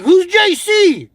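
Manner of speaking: high, slow put-on voice; hammed-up drawn-out question; slow mock impression. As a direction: drag it out like a crank. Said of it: "He's like".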